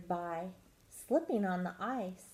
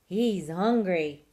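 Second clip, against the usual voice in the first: loud, stretched-out warning; shouted; 10 dB louder, slower than usual. A narrator's reading. Animals warn mouse about hungry bear, shouted. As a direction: call out a slow, loud alarm. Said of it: "shouted the squirrel and the fox".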